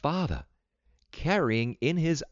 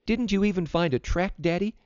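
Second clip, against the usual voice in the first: put-on higher, more insistent girl; girl repeating question; 11 semitones higher than usual. A narrator's reading. Vida asks her reluctant father once more, high and insistent. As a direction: press Daddy with a high-pitched question. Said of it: "she repeated".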